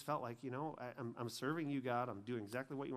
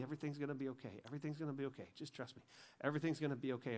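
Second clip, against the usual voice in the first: soft, gently retold comforting; fatherly reassurance; 3 dB quieter, much faster than usual. God comforting him like a father, softly reassuring. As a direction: soothe softly, dropping away at the end. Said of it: "did what any father would do".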